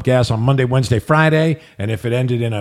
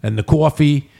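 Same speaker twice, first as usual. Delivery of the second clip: Jersey vowels, long rounded "aw"; New Jersey accent. Shown as a demonstration. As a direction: show off a Jersey accent on each word. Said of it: "I hear that accent".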